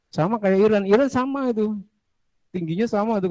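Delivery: lively high-pitched aside; eager, voice leaping up; excited. Real, not acted. Excited aside about Iranians.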